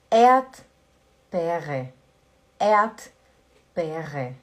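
Erdbeere with the first R silent, Air-t-beh-reh; Erdbeere, first R left out; German Erdbeere. Shown as a demonstration. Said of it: "o primeiro R a gente não pronuncia".

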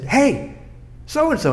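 high, singled-out hail; mock call-out, pitched well up; retold yell. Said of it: "I yelled at him".

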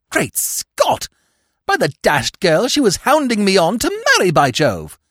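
high, excited exclamation; startled outburst. Acted. Gentleman suddenly realises, exclaims.

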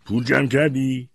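high, loud mocking question. A narrator's reading. Grandfather taunts grandson about saving money, mocking. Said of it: "با لحن استهزاآمیزی پرسید".

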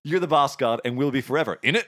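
amused Cockney repeat, laughing a little; Cockney accent. Acted. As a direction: replay the Cockney sign-off with a chuckle. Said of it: "in Cockney".

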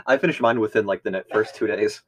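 talking through a mouthful; words round a bite of candy; chewing while talking. Real, not acted. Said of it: "Sorry, I'm chewing".

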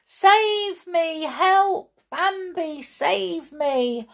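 high, loud panicked cries; crying for help. Acted. Thumper flees the bear, high panicked cries for help. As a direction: yelp for help, scared. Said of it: "Thumper cried".

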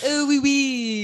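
high, loud cartoon French accent; mock French accent. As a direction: draw it out in a silly French accent.

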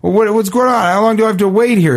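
high-pitched mock indignant complaint; mildly acted exasperated protest; imitating angry yeller. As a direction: retell a driver's impatient yelling. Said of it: "he's just screaming at her".

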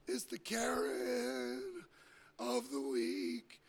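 high, slow drawn-out announcement; announcer voice. Pretend. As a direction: croon it like an award reveal. Mock Karen announcement.

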